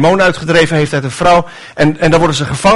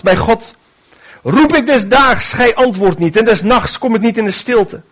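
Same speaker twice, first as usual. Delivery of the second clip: lament; 6 semitones higher than usual. Acted. David lamenting to God day and night, high pleading voice. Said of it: "Bij de woorden van mijn jammerklacht".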